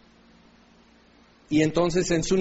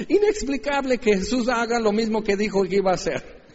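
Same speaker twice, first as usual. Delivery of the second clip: laughing sarcasm; 5 semitones higher than usual. Real, not acted.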